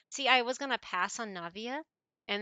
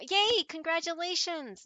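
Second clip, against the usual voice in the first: loud high happy yay; excited cheer; 8 semitones higher, 6 dB louder than usual. Real, not acted. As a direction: cheer them on for the pull. Cheering a viewer's pull.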